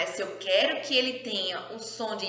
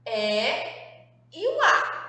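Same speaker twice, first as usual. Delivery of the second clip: exaggerated question to class; slower than usual. Shown as a demonstration. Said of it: "quem são as minhas vogais".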